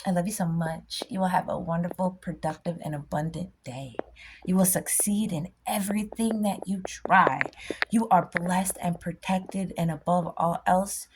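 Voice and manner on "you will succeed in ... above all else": whispered blessing. Real, not acted. Blessing the viewers.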